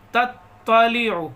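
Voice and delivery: تطلع with the ط doubled and slow; تطلع with a stressed double t; doubled toay. Shown as a demonstration. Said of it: "یہ توئے کو double پڑھتے ہیں".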